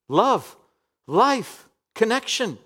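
ringing finale. Acted. Climactic closing list.

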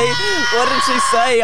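high, drawn-out, urgent call; eager shouted question. Real, not acted. Friend begging to hear the club story, eager shout.

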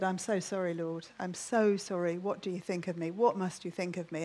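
understated retold apology; contrite apology. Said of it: "came to my senses and I said".

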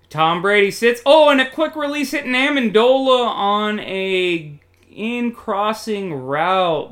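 building sportscaster excitement; excited play-by-play. Pretend. Live call of a catch.

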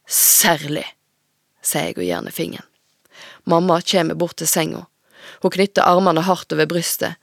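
put-on steady, measured reading of a teen novel; story narration. A narrator's reading. Author reading her own novel aloud to the host. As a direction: read the chapter aloud to the audience.

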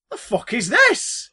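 slow, loud outraged fan; mock disgust at the new movie; old fan grumbling at the screen, loud; confused outraged fan. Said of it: "older people who love the original going".

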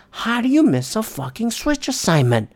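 high, incredulous yell at the player; demanding how he could miss it; loud disbelieving outburst, slowing at the end; exasperated rant. Retold or imitated. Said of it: "And I just go".

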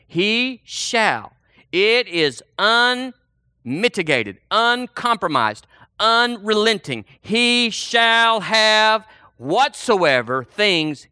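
very slow, each word set apart; emphatic declaration. Real, not acted. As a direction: hammer out each word deliberately. Hammering home the scripture word.

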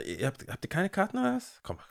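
high, soft gracious mock; lightly voiced condescending friend; patronising offer. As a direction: play the generous insider. Acting generous friend taking others in.

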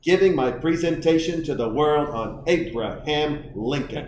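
slow, halting sportscaster delivery; a fifth grader presenting like a sportscaster; drawn-out, emphatic announcer cadence; Howard Cosell impression. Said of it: "if I had Howard Cosell's voice".

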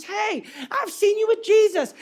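put-on high-pitched accusing girl; young girl. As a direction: call him out like a young girl. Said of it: "a young girl walks up to him".

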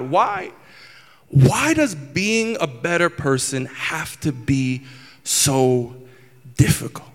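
slow, drawn-out plea, with pauses; pleading with God. Retold or imitated. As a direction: stretch it out as an exasperated question to God. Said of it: "just asking God".

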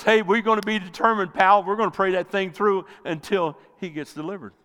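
rallying encouragement. Acted. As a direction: pump up your buddy to keep praying. Pastor voicing encouraging prayer partner.

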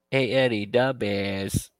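mock Chicago accent; lightly hammed-up Chicago voice. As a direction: do a sketch-show Chicago fan. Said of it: "since he's from Chicago".

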